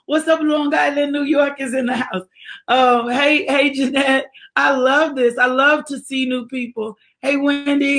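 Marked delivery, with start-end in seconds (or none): 0.1-2.2 higher-pitched roll-call greeting; big call-out shout-out; hyped shout-out. Real, not acted. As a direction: announce the hometown to the crowd. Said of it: "need to say it like that".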